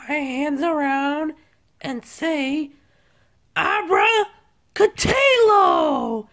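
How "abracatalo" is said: magic word. Pretend. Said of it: "That's my new magic word".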